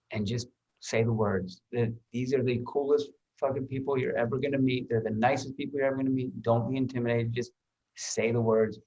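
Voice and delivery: soft, calm encouragement to a buddy; reassuring a nervous actor. Retold or imitated. Actor reassures nervous castmate between takes, softly and calmly. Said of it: "And I was like".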